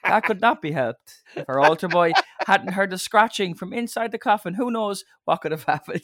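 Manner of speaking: lightly voiced priest going on; priest's eulogy. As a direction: priest continuing a silly eulogy. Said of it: "it's always that".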